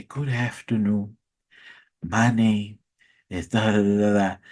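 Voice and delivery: lightly voiced Nigerian professor in monotone; a hint of monotone Nigerian. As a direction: drone the greeting like a bored lecturer. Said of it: "they always talk in monotone".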